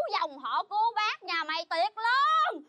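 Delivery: slow, drawn-out curse; cursing tirade. Acted. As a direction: stretch the curse out to a rising finish. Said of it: "nghe tao chửi". (chửi kéo dài giọng)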